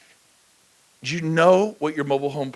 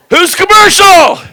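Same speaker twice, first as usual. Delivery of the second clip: loud, high, drawn-out call to the crowd; slow rally shout; 18 dB louder, slower than usual. Real, not acted. Speaker prompting agents to shout back, slow rally shout. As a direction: stretch each word and shout it.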